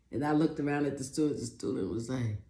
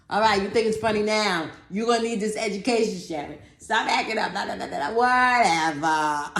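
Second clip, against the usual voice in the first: mock teacher scolding; 5 semitones higher than usual. Teacher scolding, voiced mockingly.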